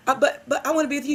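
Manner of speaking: put-on high, quick childlike pleading; upset child. Teacher imitating a pupil begging to stay with her, pleading. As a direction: imitate a kid insisting through upset. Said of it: "he started crying".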